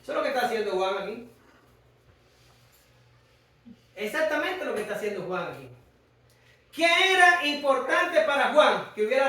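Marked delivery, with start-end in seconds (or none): 0.0-5.7 quiet emphasis. Real, not acted. Repeated point, dropped voice.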